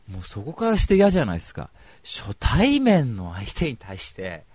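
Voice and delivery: normal talking voice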